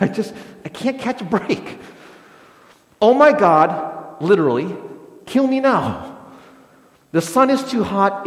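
hammed-up complaint that life is unfair; exasperated Jonah. Pastor voicing Jonah's sulking to the congregation, hammed-up whine. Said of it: "Jonah's probably thinking to himself".

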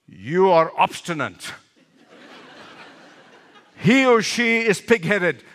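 quoting a beloved mentor's joke while laughing; laughing through it. Retold or imitated. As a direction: chuckle out the mentor's joke as you go. Retelling his mentor's joke, laughing.

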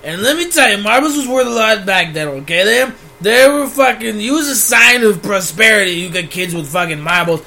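put-on cranky old-timer ranting about the good old days; grumpy old man. Podcast bit, playing an old man complaining about kids. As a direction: gripe like a crotchety grandpa.

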